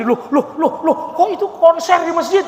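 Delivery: high, loud laughing disbelief; a baffled Egyptian blurting out in surprise; Egyptian visitor's shock. Retold or imitated. Egyptian man hearing love songs in the mosque, loud amazed outcry.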